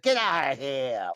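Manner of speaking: mock aggressive yell, drawn out; imitating an aggressive brush-off. Man splashing the woman in the lake, mock aggressive. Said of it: "Like, it's so aggressive".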